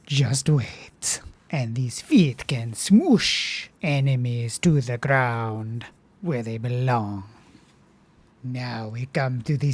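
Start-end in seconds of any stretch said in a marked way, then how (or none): 1.5-7.2 menacing whisper. Acted.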